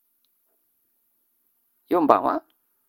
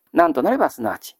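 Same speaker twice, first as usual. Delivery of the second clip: なんとなればすなわちです rattled off fast and a little lower; quick lower repeat; faster than usual. Shown as a demonstration. Teacher to students repeating the reading, quick and casual. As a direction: run through なんとなればすなわち quickly as a recap. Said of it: "読み方は、".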